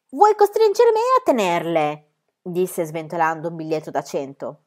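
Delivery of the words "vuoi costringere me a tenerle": foreign circus director. A narrator's reading. Circus director presents Adolf to the crowd, grand and foreign. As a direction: sell the strongman in a grand foreign showman voice.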